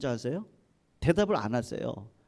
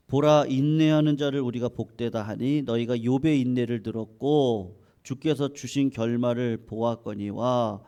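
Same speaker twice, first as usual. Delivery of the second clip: scripture reading; 3 semitones lower than usual. A narrator's reading. Preacher reads Job's verse to the congregation, solemn scripture reading. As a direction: read the verse out deliberately, drawing out phrase endings.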